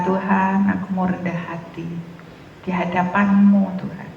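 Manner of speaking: softening, sincere plea to God; quiet, humble address to God; humble prayer. Real, not acted. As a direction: let the voice sink gently as you pray.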